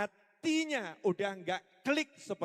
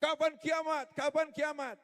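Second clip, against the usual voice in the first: shouting question; 7 semitones higher than usual. Retold or imitated. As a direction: call out impatiently over the speaker. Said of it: "Neriakin Nabi Muhammad".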